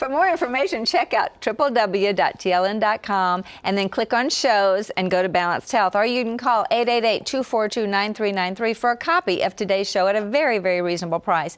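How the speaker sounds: bright radio announcer read; booming sing song welcome. Acted. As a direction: sell it like a show host. Show outro announcement.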